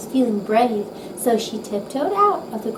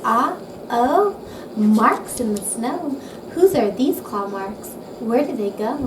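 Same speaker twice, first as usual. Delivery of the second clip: excited discovery. Acted. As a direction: call out the find with wonder. Child spotting tracks in snow.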